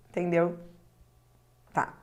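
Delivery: usual speaking voice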